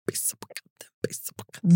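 rhythmic, voiceless mouth percussion; beatbox the words as a jingle backing; whispered beatbox. Pretend. Requested beatbox effect under jingle.

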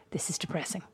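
very soft, low imitation of a listener; imitating someone underwhelmed, barely voiced; retold gloomy complaint. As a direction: drop to a low, hushed grumble. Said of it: "Don was like".

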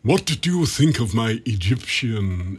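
a hint of a grand old luvvie asking, drawn out; John Gielgud asks about his accent, mildly imitated; imitating Gielgud. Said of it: "and he said".

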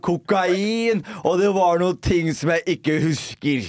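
mock tabloid headline. Mocking the tabloid story about him, slow headline voice. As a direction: announce it like a scandal headline.

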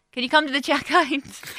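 calling out. Retold or imitated. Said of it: "You could have just said".

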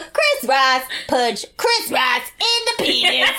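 mock TikTok voice. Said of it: "taking the piss and they were like".

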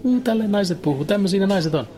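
high squeaky put-on voice imitating a comedian's woman voice; mock the comic's squeaky impression of women; shrill mock voice. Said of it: "Se vaan puhuu kimeällä äänellä".

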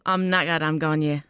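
learner's go at Geordie; attempted Geordie accent. Shown as a demonstration. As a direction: tentatively copy a Geordie speaker. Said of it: "I can't get the Geordie accent".

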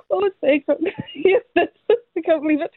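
teary laughter through the words; overwhelmed giggle near tears; half laughing, half crying. Real, not acted. Winner overwhelmed on the phone, laughing and teary.

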